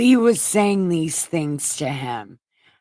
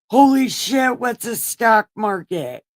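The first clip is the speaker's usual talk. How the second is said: amazed; 4 semitones higher, 4 dB louder than usual. Acted. Amazed crowd exclaims.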